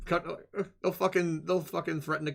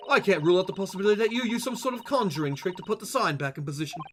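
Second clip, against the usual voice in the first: put-on accent, formal reading; lightly voiced accented detective; 5 semitones higher than usual. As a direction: read it as a hint of a stuffy detective. Voices game character.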